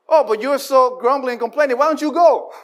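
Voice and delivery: the preacher needling the grumblers, high and loud; mocking retort. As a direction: toss it back at them with a sneer.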